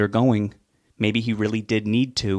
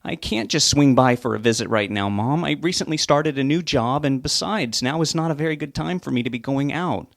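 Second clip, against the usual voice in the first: irritated; 5 semitones higher than usual. Acted. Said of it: "He became irritated and let out a sigh".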